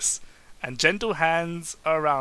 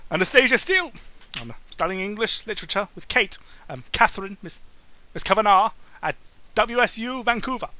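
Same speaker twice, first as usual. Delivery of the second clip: higher, louder flustered voice; higher nervous student introduction; nervous young woman; 5 semitones higher, 3 dB louder than usual. Acted. Anastasia answering nervously.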